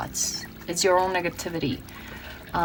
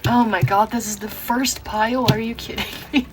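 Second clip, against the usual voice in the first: amazed disbelief; 3 semitones higher than usual. Real, not acted. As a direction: gasp out the surprise. Surprised by the first pile.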